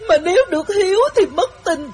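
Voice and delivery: imitating heavy crying. Wife acting out the girl sobbing harder, crying. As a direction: wail through the words like a heartbroken girl. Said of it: "nó khóc dữ hơn nữa".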